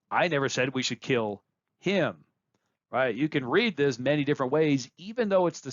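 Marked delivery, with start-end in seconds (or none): 0.1-2.2 him lifted at the end; stress on him. Shown as a demonstration. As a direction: point at him. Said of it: "by where you place emphasis".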